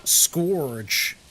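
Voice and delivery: "scourge" said wrongly as SKORJ; mispronunciation. Retold or imitated. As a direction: say "scourge" to rhyme with gorge. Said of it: "Have you heard people say".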